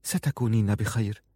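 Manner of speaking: soft murmured reassurance; whispered. Acted. Farun softly reassuring Aziza. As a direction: breathe it gently to her. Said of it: "وهمست لها فرون".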